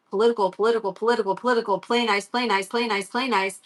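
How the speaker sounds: quiet, even chant to oneself; self-restraint mantra. Retold or imitated. Mom reminding herself to play nice at tryouts, restrained chant. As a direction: repeat it softly like a calming mantra.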